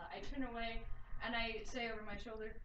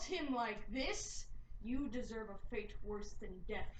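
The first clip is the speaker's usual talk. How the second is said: slow, cold and deliberate; menacing calm, every word placed; very calmly; 6 dB louder, much slower than usual. Acted. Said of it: "say very calmly".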